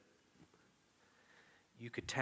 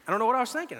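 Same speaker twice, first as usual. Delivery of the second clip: much higher, louder exclamation; exasperated exclaim; 13 semitones higher, 11 dB louder, much faster than usual. Real, not acted. Preacher marveling at his own foolishness, loud. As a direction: throw up your hands at yourself.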